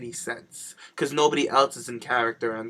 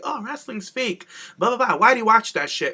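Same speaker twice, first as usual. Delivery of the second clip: higher-pitched mock of wrestling skeptics; mocking naysayer; 8 semitones higher, 3 dB louder than usual. Podcaster imitating people who bother her about wrestling, mocking naysayer. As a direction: imitate a dismissive critic, pitched up. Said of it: "when people be like".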